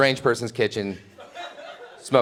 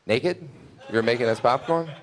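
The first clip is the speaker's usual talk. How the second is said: incredulous; 3 semitones higher than usual. Retold or imitated. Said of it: "And then she goes".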